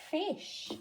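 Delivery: "Fish" lifted high, sh drawn out; rising teacher prompt. Shown as a demonstration. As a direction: coax the word out with a rise. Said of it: "let's do it together".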